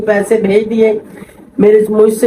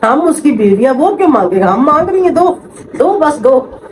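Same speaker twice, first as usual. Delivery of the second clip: mocking demand; 3 semitones higher than usual. Mimicking sister-in-law demanding money.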